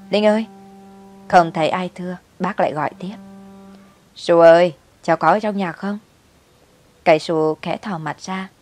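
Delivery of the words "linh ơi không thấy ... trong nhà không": loud call next door. Acted. Neighbour calling to the child through the wall, loud. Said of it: "bác lắng tai rồi gọi".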